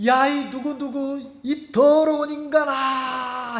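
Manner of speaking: high, drawn-out yell; demonstrated shout. Shown as a demonstration. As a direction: demonstrate scolding yourself in the mirror, stretching the last word. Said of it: "크게 소리 지르면서". (길게 늘여 외치는 고함 시범)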